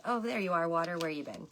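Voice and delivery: pleased surprise. Real, not acted. To the missing water charm, greeting it with surprise. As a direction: welcome the charm like a friend.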